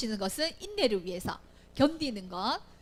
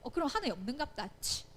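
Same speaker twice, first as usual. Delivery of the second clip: giving-up huff; 6 dB quieter than usual. Acted. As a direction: shrug it off and walk away. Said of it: "이러고 떠나는 게 아니라". (토라져서 포기하는 듯한 말투)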